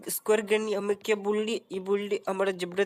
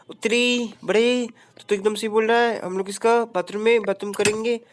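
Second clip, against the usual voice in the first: lightly voiced smug sidekick; 4 dB louder than usual. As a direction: scold him like a smug friend. Answering character voice.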